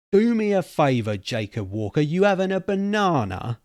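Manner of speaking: sharp, loud and high-pitched comeback; indignant high-pitched rebuke; sharp retort. A narrator's reading. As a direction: snap back at him, voice jumping up high. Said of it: "Cobb said sharply".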